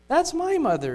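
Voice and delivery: high, loud, overwhelmed; shaking with emotion. Acted. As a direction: gasp it out in shock. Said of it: "shaking with emotion".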